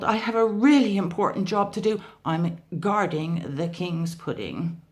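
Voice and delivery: fast, loud panicked babble; hurried frightened excuse; gabbling. Acted. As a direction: rush the words out nervously. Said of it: "he gabbled".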